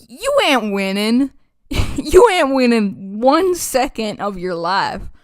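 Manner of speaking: slipping into a country twang; country accent. Pretend. Gamer warning newcomers about fighting Havel, in a country accent. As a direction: lay on a light country accent. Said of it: "I don't know why I have a country accent".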